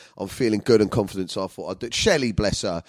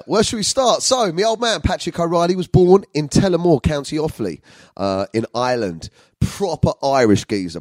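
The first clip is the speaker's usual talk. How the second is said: ordinary talk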